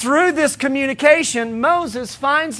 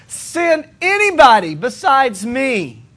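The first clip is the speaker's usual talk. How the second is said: a singer's plea; 3 semitones higher, slower than usual. Retold or imitated. Moses begging God, in a soul singer's wail. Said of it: "he does the James Brown thing".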